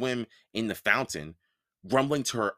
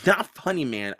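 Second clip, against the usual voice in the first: annoyed; 4 dB louder than usual. Acted. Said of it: "I told him".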